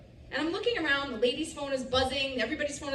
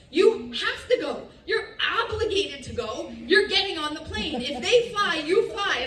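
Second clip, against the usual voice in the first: insistent husband; 3 semitones higher, 6 dB louder than usual. Retold or imitated. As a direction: lay down the law, pushing each phrase. Husband insisting she must go.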